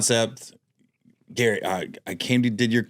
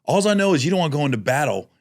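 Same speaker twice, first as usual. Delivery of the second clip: ad read; faster than usual. Pretend. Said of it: "Let's do a mock one".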